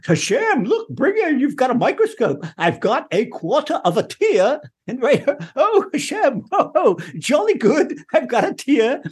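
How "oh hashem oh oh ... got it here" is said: high, hammed-up gleeful show-off; mock clown prayer. Preacher mocks a clown showing God a tear, high gleeful squeal. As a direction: squeal like a fool proud of one tear.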